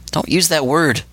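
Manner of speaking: loud growling warning; growled. A narrator's reading. Lita warning Seedy off the word, growled. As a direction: growl it at him. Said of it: "Lita growled".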